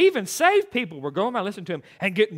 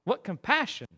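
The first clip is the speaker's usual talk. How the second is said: sarcastic wow; 7 dB quieter, slower than usual. Retold or imitated. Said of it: "I was like".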